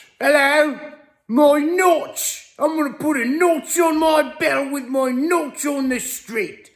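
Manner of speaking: very high put-on British accent. Riffing on how the word notch sounds, in a mock british accent. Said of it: "sounds like a British guy saying notch".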